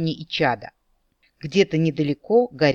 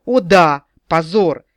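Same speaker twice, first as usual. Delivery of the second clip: sarcastic fake joy, much louder; mock delight; 7 dB louder, slower than usual. The captain mocks her word "позор", loud fake delight. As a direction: cheer it up with sarcasm. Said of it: "в притворном восторге".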